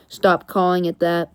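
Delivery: low, curt hero voice; lightly voiced low superhero; Batman. Batman objecting to the gadget's nickname, low and curt. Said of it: "And then Batman goes".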